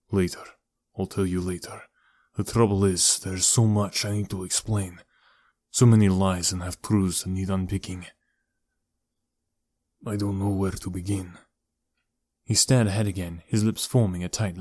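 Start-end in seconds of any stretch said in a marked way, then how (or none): 0.1-11.4 lightly voiced burdened uncle; reluctant uncle. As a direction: put it off, subdued and hesitant. Uncle's figure stalling.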